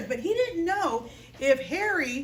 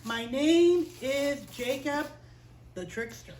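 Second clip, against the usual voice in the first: ashamed confession; slower than usual. Retold or imitated. Jacob confesses his name to Jesus, sheepish. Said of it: "And so he said".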